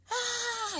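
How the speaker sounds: high, thin mock scream; retold scream. Terrified woman reliving the shooting, high scream. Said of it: "I'm screaming".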